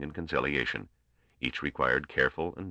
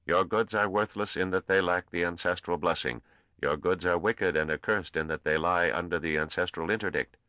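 intoned; 4 semitones higher than usual. A narrator's reading. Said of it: "The sentences were intoned".

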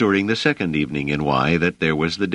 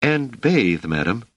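politely firm, pitched up at the start; forceful; 5 semitones higher, slower than usual. A narrator's reading. Dors interrupts the hostess about washing, rather forceful. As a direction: press the point with the hostess. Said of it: "said Dors rather forcefully".

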